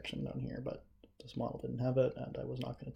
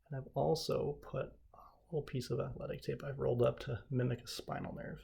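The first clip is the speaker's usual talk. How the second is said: shaking with effort. Real, not acted. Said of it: "Sorry, I'm shaking, I'm holding this".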